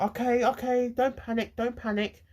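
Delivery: high, repetitive reassurance, as a teacher; calming teacher. Retold or imitated. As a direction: voice a teacher heading off panic. Teacher voiced calming crying pupil.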